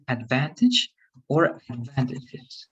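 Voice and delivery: advantage or advantages, said slowly for the student; slow model word. Shown as a demonstration. Teacher modelling the plural ending for the student, slowly. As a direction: advantages with a clear final S sound. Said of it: "The S needs the".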